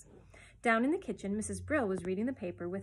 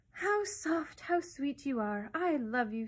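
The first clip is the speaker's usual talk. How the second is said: adoring; 5 semitones higher, slower than usual. A narrator's reading. Baby adoring the sunlight.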